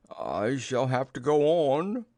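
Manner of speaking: slow, effortful character voice; drawn-out storybook bear voice; struggling bear. Acted. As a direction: labour slowly through it like a stuck bear. Pooh struggling to get out.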